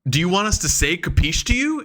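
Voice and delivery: high, rising puzzled question; mock baffled. Confused teammates questioning their odd leader, mock baffled. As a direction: ask it in acted disbelief.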